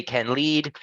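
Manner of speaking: slow teacher's model for repeating; slow model phrase. Shown as a demonstration. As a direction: say it slowly, word by word, for a learner. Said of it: "Try this, brother".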